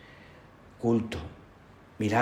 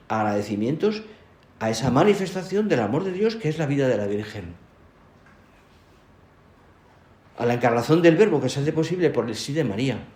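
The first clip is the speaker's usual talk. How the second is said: raised, swelling sermon cadence; louder, higher homily delivery with pauses; emphatic preaching; 5 semitones higher, 6 dB louder than usual. Real, not acted. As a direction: proclaim it phrase by phrase to a congregation.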